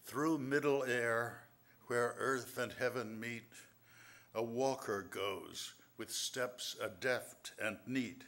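slow, measured recital of verse; poem reading. Acted. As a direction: read each line like a riddle to savour. Reads his riddle poem.

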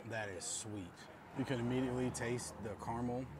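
chewing while talking; muffled by food in mouth; mouth full of cookie. Real, not acted. Seen 0: Cookie held until -1; lips stay tight and pressed while speaking.

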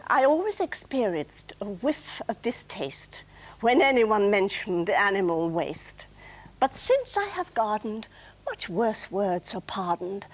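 measured recital of a light verse; deliberate poetry reading; comic poem recital. Acted. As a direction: recite it with a pause after each line.

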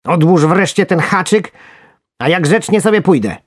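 high, squeaky bargaining; loud, high little worm voice; pleading worm. A narrator's reading.

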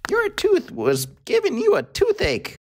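tiny, very high-pitched mouse. A narrator's reading. Mouse explaining the toothache to the crocodile, squeaky high. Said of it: "answered the mouse".

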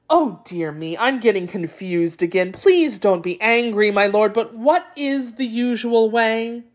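mildly flustered, pleading jackal; confused jackal. Acted. Jackal begging the tiger not to be angry, lightly flustered. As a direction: plead confusion, rising toward the question.

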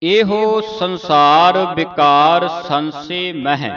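measured, slow chant of the verse; slow scripture recitation. Acted. Teacher reciting gurbani slowly for a student, measured and deliberate.

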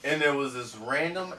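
talking with a numb mouth; numb from the dentist. Real, not acted. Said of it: "My mouth is really numb right now".

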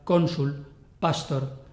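Cónsul and pastor each stressed on the first syllable; penultimate stress. Shown as a demonstration. Teacher giving two-syllable Latin examples, stress on first syllable of Cónsul, pastor. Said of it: "llevan el acento tónico en la penúltima sílaba".

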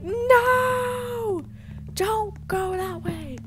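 high, drawn-out mock wail; imitated worried viewers. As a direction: plead in a put-on high voice. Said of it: "some of you guys are being like".

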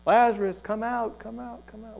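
imitated echo. Jesus shouting into a cave, imitated echo dying away. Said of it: "Maybe it even echoed".

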